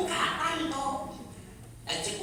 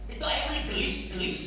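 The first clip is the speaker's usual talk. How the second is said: put-on Javanese accent. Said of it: "Nu letah Jawa ngajar geus di Sunda".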